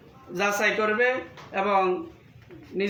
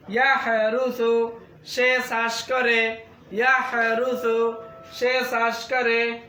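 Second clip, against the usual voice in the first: slow, measured word drill for pupils; teacher reciting Arabic words and meanings; vocabulary drill; much slower than usual. Shown as a demonstration. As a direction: say each word slowly for students to repeat.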